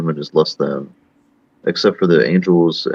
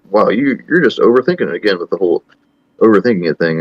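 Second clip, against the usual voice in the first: higher-pitched, hurried dismissive imitation; mock scoff; 3 semitones higher than usual. Imitating people who laugh at his argument, scoffing. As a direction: brush it off like a mocking skeptic. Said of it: "they'll just sort of scoff".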